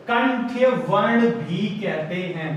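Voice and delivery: slow, deliberate teacher's repeat; slow term repetition. Shown as a demonstration. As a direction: spell the term out slowly for learners.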